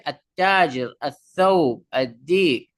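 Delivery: "আত-তাজির, আত-থাউব, আদ-দিক" with t, th and d held double; teacher's demo of tashdid in "আত-তাজির, আত-থাউব, আদ-দিক"; doubled consonant. Shown as a demonstration. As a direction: press on the doubled consonant in "আদ-দিক" and the words before it. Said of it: "double হবে".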